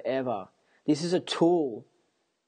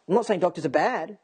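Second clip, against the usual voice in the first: heated, higher and rising; defensive and worked up; getting emotional; 3 semitones higher than usual. Real, not acted. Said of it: "Sorry, I'm getting emotional".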